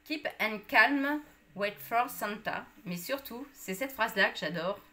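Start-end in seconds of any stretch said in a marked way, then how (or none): 0.0-2.7 slow, careful English accent, a touch louder on Keep and calm; jokey English accent on a French slogan. Shown as a demonstration. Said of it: "vous allez admirer mon accent anglais".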